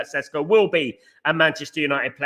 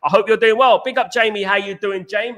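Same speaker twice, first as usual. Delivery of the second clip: high, bright welcome to the viewers, louder; upbeat stream greeting; 4 semitones higher, 4 dB louder than usual. Real, not acted. Streamer welcoming the chat as they join, upbeat and higher.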